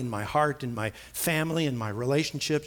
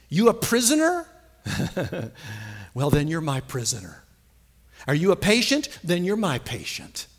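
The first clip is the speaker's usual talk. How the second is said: voicing the Lord; 5 semitones higher than usual. Preacher voicing God telling believers he is in charge. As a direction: proclaim it as God in full command. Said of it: "He has the ability to say to you and I".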